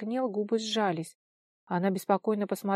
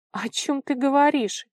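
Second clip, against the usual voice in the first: nervous laugh; 6 semitones higher, 7 dB louder than usual. A narrator's reading. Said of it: "нервно рассмеялся Толя".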